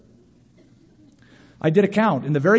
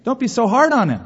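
higher mock-protest voice; objecting listener; 4 semitones higher than usual. Imagined listener defending Jonah, higher mock protest. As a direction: plead for poor Jonah. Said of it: "You say".

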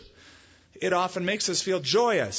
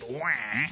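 mock baby wail; 2 semitones lower, 3 dB quieter than usual. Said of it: "than just".

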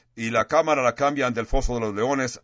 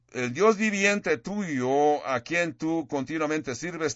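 slow, somewhat higher echo of the king's mournful call; a gentle, slower retelling of the anguished cry; a hint of lament; 4 semitones higher, slower than usual. King's words quoted again.

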